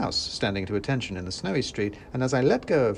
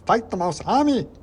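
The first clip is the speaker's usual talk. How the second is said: much higher, louder startled squeak; surprised cry; 11 semitones higher, 7 dB louder than usual. A narrator's reading. Soldiers crying out in shock at the order. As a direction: yelp it in disbelief. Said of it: "cried the soldiers".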